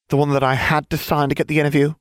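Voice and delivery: very high, quick, airheaded voice; squeaky airhead voice; ditzy blonde witch. A narrator's reading.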